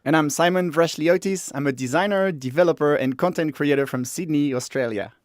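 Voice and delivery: steady host introduction; formal co-host intro; podcast intro read. Acted. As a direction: introduce yourself to listeners. Co-host intro read, take two.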